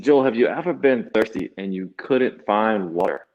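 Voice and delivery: lightly imitated Kiswahili accent. Kenyan grandmother asking Joel about thirst, light Kiswahili accent. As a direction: retell her question with a touch of Kiswahili accent. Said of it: "in this deep Kiswahili accent".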